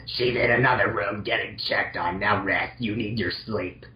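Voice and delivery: a hint of a low nurse voice; lightly voiced nurse. Nurse calming Mega Man in bed, lightly voiced. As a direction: soothe the patient, voice dropped a little. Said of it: "I'll be the nurse".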